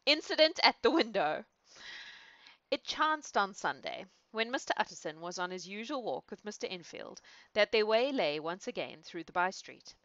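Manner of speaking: measured storybook reading voice; story narration. A narrator's reading. Reader restarting the chapter, measured story narration. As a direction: read it like an old novel.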